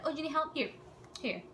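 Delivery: gentle mock offer of help; falsely nice. Sergeant helps girl who dropped her bag, falsely nice. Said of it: "They were nice".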